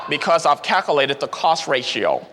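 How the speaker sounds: dry, deliberate number-cruncher voice; analytical reasoning. Retold or imitated. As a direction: lay out the calculation coolly, step by step. Green explains cost reasoning.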